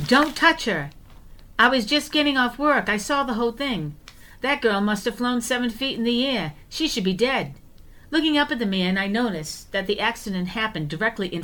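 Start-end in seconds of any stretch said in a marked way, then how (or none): 0.1-7.5 retold yell. Ambulance attendant yelling at the sister not to touch her, high mock yell. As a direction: play the ambulance attendant calling out. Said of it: "ran over and yelled".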